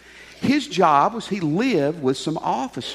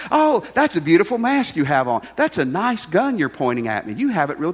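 mock naive homeowner. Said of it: "the pastor said to be positive".

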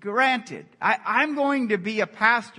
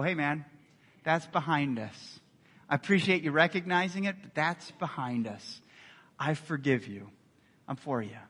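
gentle reassurance; 4 semitones lower, 5 dB quieter than usual. Pretend. Answering a friend's apology, soft reassuring forgiveness. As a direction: ease his guilt quietly.

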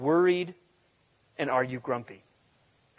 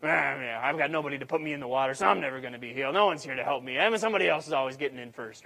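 put-on grumbling crotchety old man; 3 semitones lower, 3 dB quieter, faster than usual. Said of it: "you can almost read it in that tone of voice".

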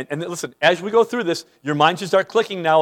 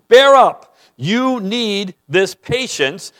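forceful exhortation; 2 semitones higher, 3 dB louder, much slower than usual. Real, not acted. Preacher exhorts the suffering church.

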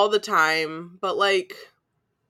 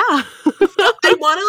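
stretched high whine; 10 semitones higher, 5 dB louder, much slower than usual. Real, not acted. Teasing about the friend.

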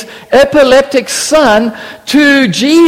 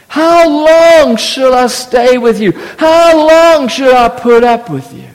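lament; 2 semitones higher than usual. Retold or imitated. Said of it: "sounds like a lament psalm".

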